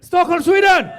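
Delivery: high, loud mock-Swedish shout; mock Swedish accent. Echoing the Swedish audience member, booming mock Swedish accent. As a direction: holler it in an exaggerated Swedish lilt. Mimics the Swedish guest's answer.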